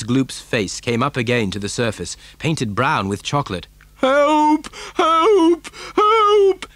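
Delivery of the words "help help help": high, loud cries, rising; yelling for help. A narrator's reading. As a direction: yell for rescue as a drowning boy. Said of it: "he yelled".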